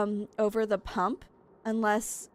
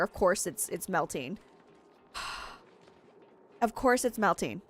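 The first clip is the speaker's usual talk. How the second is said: normal talking voice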